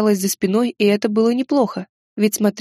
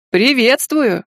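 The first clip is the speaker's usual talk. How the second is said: overly cheerful greeting, a bit louder; too joyful exclamation; 3 semitones higher, 4 dB louder, much slower than usual. Acted. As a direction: call out the welcome with forced glee. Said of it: "Как-то слишком радостно воскликнул". (слишком радостно воскликнуть)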